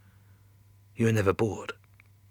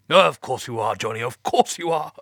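nervous; 2 semitones higher, 4 dB louder than usual. Acted. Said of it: "He sounded nervous".

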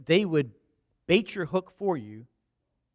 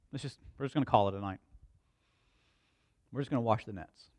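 low, deflated acting of tired fishermen; disappointed; 4 semitones lower, 5 dB quieter, faster than usual. Fishermen calling it a night after no catch, disappointed. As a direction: voice their letdown, low and subdued.

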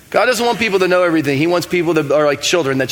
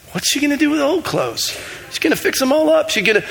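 rapid back-and-forth; 9 semitones higher than usual. Retold or imitated. Retold dialogue with God.

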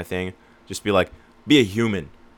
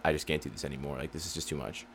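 weary fed-up customer; 5 semitones lower, 11 dB quieter than usual. Retold or imitated. Customer fed up with old company.

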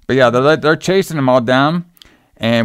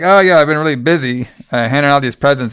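Harry as Santa. Retold or imitated. Santa explaining his dirty suit to kids, mildly hammed-up. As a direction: play a sheepish Santa brushing off the dirt. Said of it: "And it's like".

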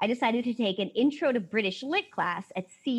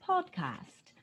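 'podcast,' pitched up in a hammed British voice; high, posh-sounding mock British accent; 8 semitones higher, 6 dB quieter than usual. Hosts testing British accents, pitching the word high. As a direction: lift 'podcast,' high like a plummy Brit. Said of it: "have you heard anybody with a British accent".

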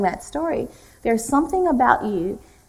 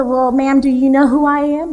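higher, louder mock-innocent retort; cheeky comeback; 4 semitones higher, 6 dB louder than usual. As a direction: toss her question right back at her. Usher turns question back.

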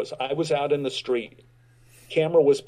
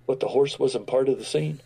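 puzzled Powers. Retold or imitated. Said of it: "Powers says to me".

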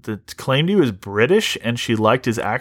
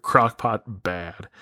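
slow, softer dim-witted caveman grunt; mock caveman; 3 semitones lower, 4 dB quieter, much slower than usual. Summing up the group as a slow caveman. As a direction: drag out crock pot bad like a caveman. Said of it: "That's the description of the group".

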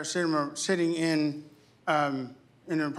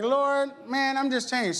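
mock exasperated prayer; 9 semitones higher, slower than usual. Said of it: "Be like".

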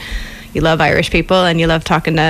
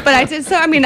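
higher pitch, breaking into laughter; laughing; 9 semitones higher, faster than usual. Real, not acted. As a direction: admit it through a giggle. Guest admits breaking the rule.

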